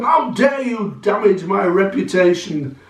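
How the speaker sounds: indignant merchant, moderately high voice; lightly hammed-up offended dealer; affronted merchant. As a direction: raise the pitch a little in mock outrage. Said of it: "here comes the merchant".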